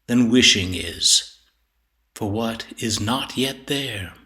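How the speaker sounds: slow, measured verse recitation with deliberate pauses; poetry reading. Acted. Poet reading a sonnet on time and tears, measured recitation. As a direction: recite it deliberately, weighing each phrase. Reads third poem aloud.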